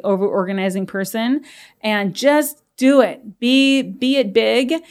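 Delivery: big exaggerated welcome. Shown as a demonstration. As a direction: throw the door open with a hammed-up invitation. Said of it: "making it bigger".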